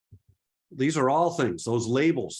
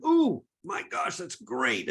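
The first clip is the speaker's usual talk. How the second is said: mock gushing, much higher on Ooh; imitating an over-impressed neighbour, high and drawn out on Ooh; gushing admirer; 6 semitones higher, slower than usual. Fellow photographer gushing over your shot, mock high gush. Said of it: "somebody else next to you going".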